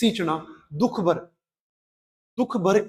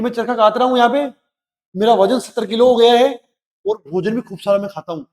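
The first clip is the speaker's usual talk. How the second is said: cheerful boast; 3 semitones higher, 6 dB louder than usual. Retold or imitated. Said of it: "ऐसे कह रहे".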